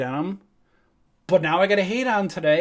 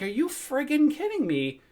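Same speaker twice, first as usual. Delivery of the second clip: retold outrage; 10 semitones higher than usual.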